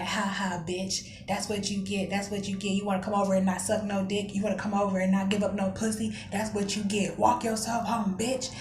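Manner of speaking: retold dismissive taunt; mocking laugh. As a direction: imitate him gloating and taking her as a joke. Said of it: "He's laughing like".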